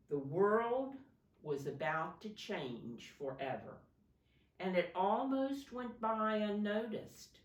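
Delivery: storybook read-aloud to a class; gentle classroom story reading; reading to children. Acted. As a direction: read it like a picture book for little kids.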